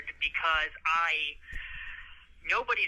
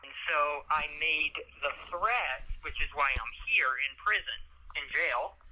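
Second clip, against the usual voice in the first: muffled jail phone line; on a prison phone. Real, not acted. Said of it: "legal advice over the phone".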